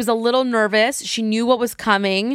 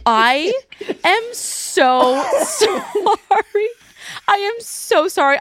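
high, embarrassed apology breaking into laughter; laughing apology; 10 semitones higher, much slower than usual. Retold or imitated. Mom apologizing to the other parent, laughing in embarrassment. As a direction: apologize through mortified giggles. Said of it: "And I go".

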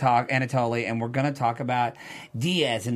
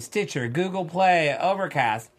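ordinary talk, nothing marked

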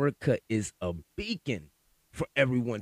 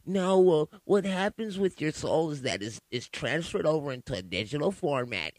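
mocking an opponent; 4 semitones higher than usual. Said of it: "is the next dispute gonna be".

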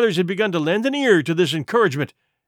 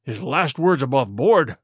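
moaning; 5 semitones lower than usual. Acted. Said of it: "moaned Morgan".

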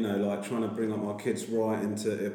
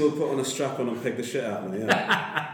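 laughing. Real, not acted. Joking, laughing through it.

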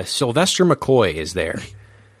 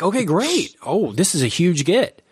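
retold excitement; 6 semitones higher than usual. Retold delight at landing an interview.

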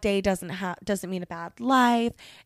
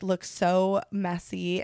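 normal talking voice

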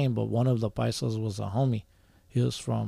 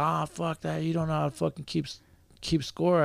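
mock yell; 4 semitones higher than usual. Player scolds the scorekeeper, imitated mild yell. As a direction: imitate an irritated player yelling, volume held back. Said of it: "yelled, he's like".

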